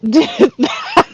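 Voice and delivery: high, loud, fake-innocent who did that; a hammed-up cry of innocent outrage; mock shocked question. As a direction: feign shock as if someone else did it. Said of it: "I looked over at her and I went".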